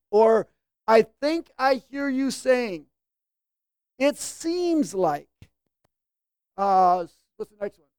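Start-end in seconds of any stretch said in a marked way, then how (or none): 0.9-5.3 slow, humble, gentle phrasing; gentle tentative. Shown as a demonstration. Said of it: "tone of voice is important".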